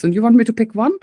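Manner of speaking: can't believe you ask me to pick one; playful mock outrage; amused disbelief. Real, not acted.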